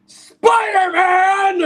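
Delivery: slow booming headline; shouted headline. Acted. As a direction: belt out the headline slowly. Jonah reading headline.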